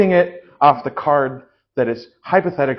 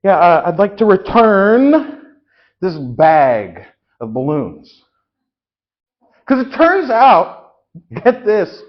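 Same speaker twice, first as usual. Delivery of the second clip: irate customer; 3 semitones higher, 6 dB louder, slower than usual. Acted. Customer returning balloons, sketch.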